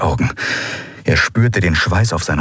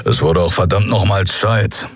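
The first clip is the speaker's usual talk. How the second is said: grumbling. Acted. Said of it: "brummte Keru".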